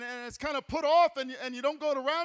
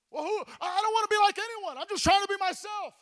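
defensive excuse; 6 semitones higher, faster than usual. Acted. Voices an imagined excuse.

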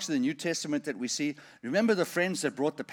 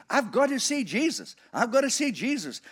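eager Zacchaeus; 8 semitones higher than usual. Retold or imitated. Zacchaeus voiced, desperate to see.

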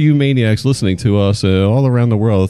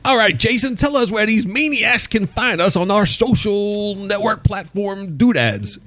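high, slow announcer intro; 11 semitones higher, slower than usual. Acted. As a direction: boom it out like a show host. Host hands off in announcer voice.

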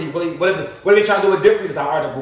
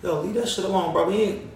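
quiet mock rapper advice; 6 dB quieter than usual. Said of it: "a rapper call you and say".

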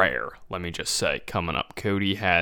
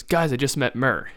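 mock-emphatic announcement, higher pitched; 5 semitones higher than usual. Co-host voicing friend's group-chat text about Murr, emphatic. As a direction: blurt it out like big news to the group. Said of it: "Texting the group chat emphatically".

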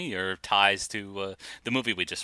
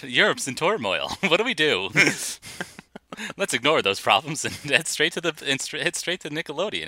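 put-on laughing old-timer, higher; old-timey voice; 7 semitones higher than usual. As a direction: ham up a thirties moviegoer. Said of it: "fun to talk old-timey".

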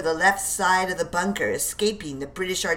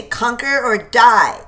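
slow, loud, higher war cry; battle cry; 5 semitones higher, 9 dB louder than usual. Acted. Sergeant leading the charge, slow loud war cry.

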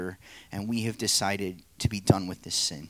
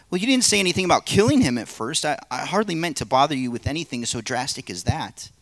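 high, loud and fast backpedalling; the man, flustered; 4 semitones higher, 5 dB louder, faster than usual. Acted. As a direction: hurry to take it back, fast and higher. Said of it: "play the narrator and three parts".

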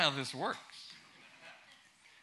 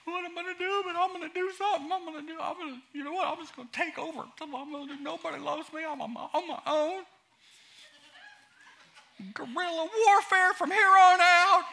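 lightly mock sulking; 13 semitones higher, 7 dB louder than usual. Continues mocking self-pity.

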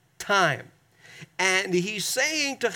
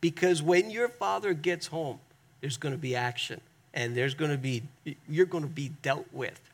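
mother's warning. Acted. Mother to rambunctious kid, lightly acted warning of trouble coming. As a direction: start with a knowing "oh", then drop ominously. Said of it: "a mother would say to a rambunctious kid".

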